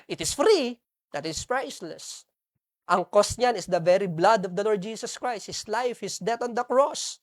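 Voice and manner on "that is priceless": hushed, lower, softer take of That is priceless; soft low repeat. Shown as a demonstration. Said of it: "repeats it softly".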